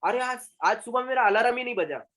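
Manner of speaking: अलार्म said as three-syllable "a-la-ram"; mispronounced alarm. Retold or imitated. Teacher acting a learner whose alarm failed, अलार्म as "alaram". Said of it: "अलार्म नहीं है वो".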